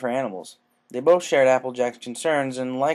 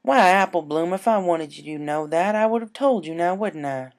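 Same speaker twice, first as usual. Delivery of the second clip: faintly astonished Applejack; 6 semitones higher, 4 dB louder than usual. A narrator's reading. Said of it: "in a faint, astonished voice".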